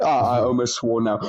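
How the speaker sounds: plain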